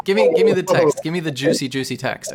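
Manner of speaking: hungry for the juicy details; gleeful eager demand. Real, not acted. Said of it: "eager for the spell text".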